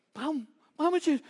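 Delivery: high, loud, slow call. Acted. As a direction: call eagerly to the lamb you hear. Calls back to bleating lamb.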